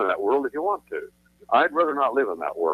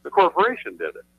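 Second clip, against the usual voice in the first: mocking the bankers; 13 semitones higher than usual. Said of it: "They say".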